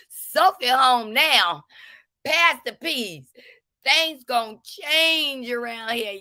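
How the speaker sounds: high, loud, laughing through the line; can't get the quote out for laughing; cracking up while quoting. Retold or imitated. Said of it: "This woman says".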